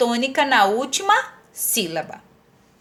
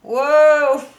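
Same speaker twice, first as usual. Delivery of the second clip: drawn-out "uou" sound effect; playful stretched "wooou"; imitated swoosh; 4 dB louder than usual. Shown as a demonstration. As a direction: voice a sliding "uou" for an accent mark. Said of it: "que é o parecido com".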